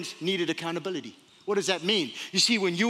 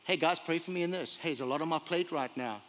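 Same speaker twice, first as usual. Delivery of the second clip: soft, lowered confiding voice; humble request; 3 semitones lower, 6 dB quieter than usual. Acted. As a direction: quietly ask trusted friends for help.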